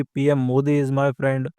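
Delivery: slow, drawn-out mocking quote of western praise; mock quoting the West. Presenter mocking western leaders' praise of India, slow and sarcastic. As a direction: stretch it out, mildly sarcastic. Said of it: "कभी कहा जाता है".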